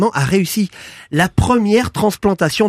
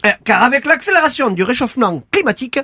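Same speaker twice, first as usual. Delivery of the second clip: lightly voiced Castex, southern lilt, official tone; a hint of the Prime Minister announcing measures; Jean Castex impression; 5 semitones higher than usual. Castex impression announcing absurd measures to the French, solemn. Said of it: "C'est Jean Castex".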